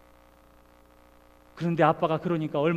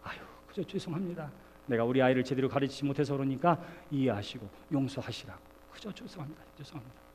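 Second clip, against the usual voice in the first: softer, humbly begging pardon; bow low and apologise softly; meek apology; 5 semitones lower, 6 dB quieter than usual. Retold or imitated. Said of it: "뭐라 그랬겠어요, 제가?".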